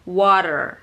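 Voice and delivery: "water" with tongue tapping the palate; American "water". Shown as a demonstration. Teacher shows tongue on palate, American "water". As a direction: flap the T in "water" like D. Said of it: "di langit-langit gitu".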